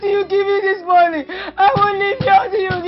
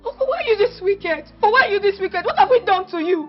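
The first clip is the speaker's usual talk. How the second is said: ranting; faster than usual. Acted. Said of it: "When you are done ranting".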